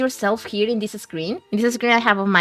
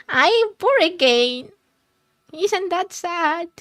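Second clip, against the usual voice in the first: mock self-pity; 7 semitones higher, slower than usual. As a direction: ham up feeling sorry for yourself.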